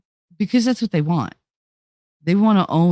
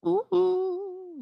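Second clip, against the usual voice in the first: excited ooh; 6 dB quieter than usual. Real, not acted. Excited squeal.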